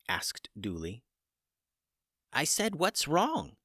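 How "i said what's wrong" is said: high and slow, spelling it out again; chicken repeating himself. Acted. Chicken repeats his question slowly to the startled wizard. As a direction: repeat it patiently for the stunned man. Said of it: "replied Hummus".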